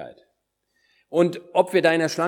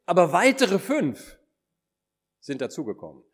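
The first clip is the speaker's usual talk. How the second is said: higher-pitched, amazed at the grace given; awed gratitude; 4 semitones higher than usual. Shown as a demonstration. Preacher models how the servant addresses the Lord, awed gratitude. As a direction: read it as one overwhelmed by undeserved favour. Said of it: "das müssen wir so lesen wie".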